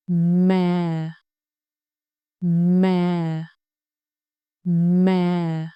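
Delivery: MÁ said as mà, low and sinking; falling tone. Shown as a demonstration. Teacher models for repetition, MÁ as low falling mà. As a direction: keep each MÁ long and low, no rise. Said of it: "down and stay low".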